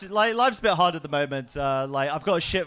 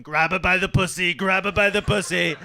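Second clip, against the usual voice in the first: Trump impression; 2 semitones higher, 4 dB louder than usual. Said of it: "my Trump impression".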